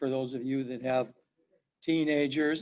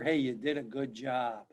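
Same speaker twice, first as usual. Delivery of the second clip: mild praise; 3 semitones lower, 6 dB quieter than usual. Retold or imitated. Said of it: "even a little tap on the shoulder".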